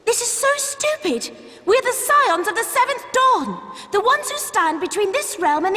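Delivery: high, exasperated protest; frustrated outburst. Acted. Ida fumes at the enemies surrounding them, exasperated.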